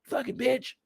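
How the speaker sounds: high-pitched mock rant at Candy; a hammed-up furious mother; imitating angry mom. Mom berating the weed tutor, high mock fury. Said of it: "That's how angry she was with Candy".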